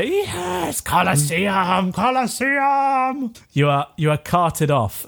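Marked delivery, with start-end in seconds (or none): 0.0-3.3 high, stretched-out crowd cheer; slow, drawn-out cheer, leaping high. Acted. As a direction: chant it like a bloodthirsty crowd. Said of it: "Everyone starts to cheer".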